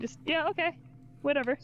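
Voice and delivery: dismissive. Acted. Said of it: "He is not ... trying to make it sound genuine at all".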